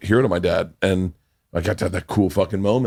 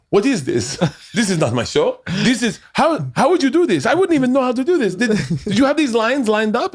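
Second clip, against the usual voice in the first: high, incredulous mock protest; imitating tearful laughing disbelief; 13 semitones higher than usual. Show's creator reacting to the shoot, imitated crying-laughing. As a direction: retell it as high-pitched, tickled disbelief. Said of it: "he was crying, laughing".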